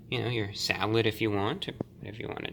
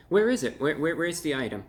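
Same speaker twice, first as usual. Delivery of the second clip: playful searching; 4 semitones higher, 3 dB louder than usual. Acted.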